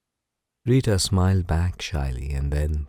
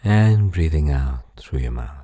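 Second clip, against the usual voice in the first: guided relaxation. Acted. Narrator settles a listener down for a bedtime story, guided relaxation. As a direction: ease the listener into rest, unhurriedly. Leads breathing before the story.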